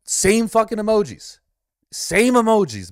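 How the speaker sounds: exasperated outburst. Real, not acted. Ranting to viewers about copycat influencers, exasperated loud outburst. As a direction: blurt it out in disbelief.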